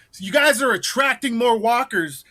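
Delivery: Southern backwoods man ordering them off his hill; Southern accent. Retold or imitated. Vigilante to guests, Southern accent. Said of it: "I would talk with, like, a Southern accent".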